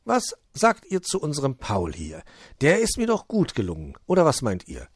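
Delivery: lightly voiced elf seeking approval; hopeful little elf. Puh shows his figure.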